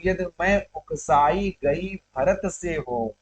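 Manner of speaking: slow, measured oath in verse; verse recitation. Acted. Teacher repeats Kaikeyi's oath for students, measured recitation. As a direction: draw the line out as poetry.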